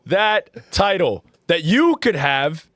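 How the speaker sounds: lightly voiced sponsor plug, slowing on the promo code; mock ad read. Host doing a playful sponsor read for friends. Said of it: "W ad read".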